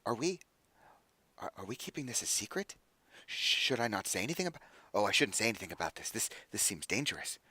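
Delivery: soft, halting question; dawning realization. Acted. Realizes the sister's visit is secret, hushed and hesitant. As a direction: drop your volume as the danger dawns. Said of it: "dawns on him in a moment".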